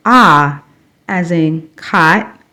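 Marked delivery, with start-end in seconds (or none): 0.1-0.6 "ah" as an open ah vowel, like in cot; short vowel sound. Shown as a demonstration. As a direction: open the mouth for "ah". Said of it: "Short O is the sound".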